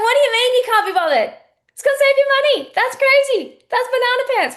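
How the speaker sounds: bubbly, playful outrage at a lame excuse. Shown as a demonstration. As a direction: tease them like the excuse is absurd. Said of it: "And so I'd just be playful".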